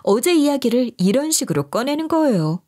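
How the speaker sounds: plain reading voice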